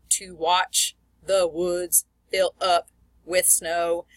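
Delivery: slow beat with "watch", "woods", "up", "snow" stressed; iambic stress. Shown as a demonstration. Teacher demonstrating iambic meter, stress on "watch", "woods", "up", "snow". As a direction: step through it, leaning on "watch", "woods", "up", "snow". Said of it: "second word is the one we emphasize".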